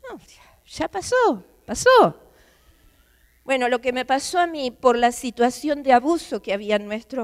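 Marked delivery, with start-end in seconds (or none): 0.1-2.2 soothing calm-down. Pretend. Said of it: "todos nos calmamos".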